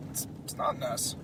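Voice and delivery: unvoiced hushed words; whisper. Superman quietly telling Lois about the S, whispered. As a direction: breathe it out in secret. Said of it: "He's like".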